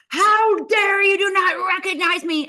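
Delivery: loud, high-pitched mock scream; outraged shout in a hammed-up Italian accent; screaming Italian designer. Designer storms in at the young host, screaming in outrage. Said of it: "screaming, going".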